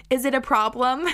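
lightly imitated Italian accent. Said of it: "in her Italian accent".

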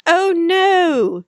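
high, breathy melodrama gasp; hammed-up damsel protest; melodrama heroine. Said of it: "old-fashioned melodrama".

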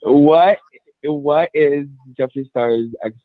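high and losing the thread; stoned, scattered talk; stoner. Real, not acted. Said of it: "I'm high as fuck right now".

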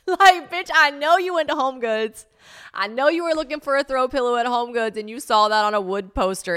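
loud, high-pitched, laughing call-out; laughing scolding. Real, not acted. Calling out her past self, loud laughing mockery. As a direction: roast yourself at the top of your voice.

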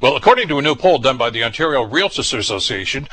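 crisp podcast intro read; scripted radio news delivery; news headline read. Acted. Reads the show's headlines.

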